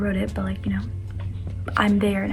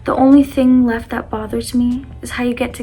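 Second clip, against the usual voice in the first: poem reading. Acted. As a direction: read it like a heartfelt poem. Reads her own poem aloud.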